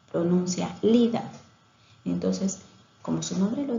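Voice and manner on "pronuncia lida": lida, with the sa of salida dropped; child's mispronunciation. Shown as a demonstration. Teacher showing a child's omission, clipped lida. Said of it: "Si el niño quiere decir salida".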